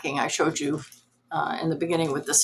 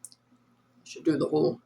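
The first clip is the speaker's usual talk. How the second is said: nasally voice; 5 dB quieter than usual. Shown as a demonstration. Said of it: "talking like this".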